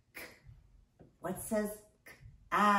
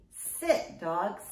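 dog command. Acted. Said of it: "we want him to".

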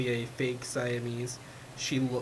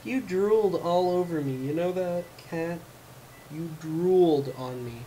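higher, louder playful scolding; mock scolding; 4 semitones higher, 4 dB louder than usual. Real, not acted. Telling off the cat for drooling on her, half-joking.

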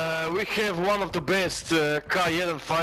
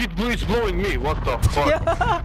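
loud startled swearing; yelling in shock; 5 semitones higher, 5 dB louder than usual. Real, not acted. Being blown up in game.

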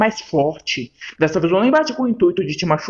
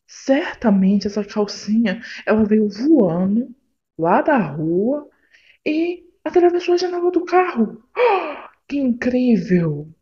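sarcastic; 4 semitones higher than usual. Acted. Girlfriend mocks his excuse.

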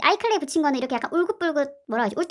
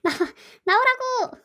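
frustrated yell; 9 semitones higher, slower than usual. Real, not acted. Struggling to get clay out.

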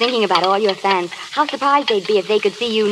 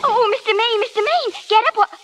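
high, urgent pleading call; alarmed cry to the fallen man; frightened calling; 13 semitones higher than usual. Acted. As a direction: shake him awake with panic in your voice. Man collapses, she calls him.

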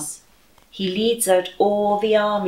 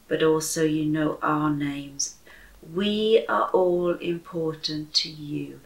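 softer, gentle closing prayer; 3 dB quieter than usual. Acted. Leading the family in prayer to God, softly prayerful. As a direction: pray quietly over the children.

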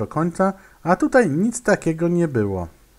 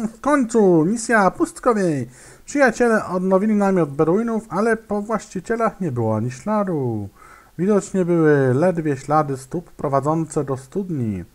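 lightly raised storyteller read; story text reading; 3 semitones higher than usual. Acted. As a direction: read the quest text like a tale. Reads mission story text.

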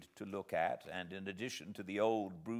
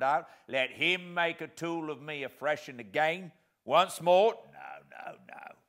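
rough convict; 3 semitones higher, 5 dB louder than usual. Acted. Convict argues with sergeant.

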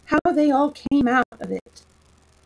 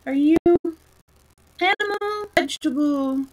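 yawning; 6 semitones higher, 5 dB louder than usual. A narrator's reading. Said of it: "yawning at every other word".

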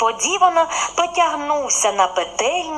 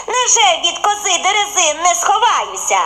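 laughing bun; 7 semitones higher, 3 dB louder than usual. A narrator's reading. Bun mocks the goat.

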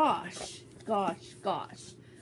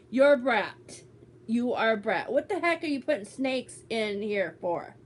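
mock scolding; 4 dB louder than usual. Scolding friend over prank snakes.

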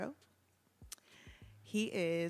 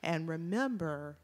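game show host. Acted. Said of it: "I sound like a game show host".

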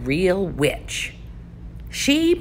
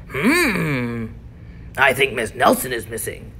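lightly voiced detective; 5 semitones lower than usual. Detective pondering aloud.

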